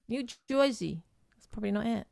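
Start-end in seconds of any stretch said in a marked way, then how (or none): 0.1-1.0 higher, tentative New Jersey accent attempt. Shown as a demonstration. Asked by a friend to try it, New Jersey accent. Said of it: "What about the New Jersey accent?".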